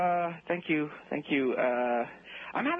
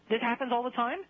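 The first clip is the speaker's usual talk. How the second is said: indignant; 6 semitones higher than usual. Acted. Outraged caller confronting the specialist.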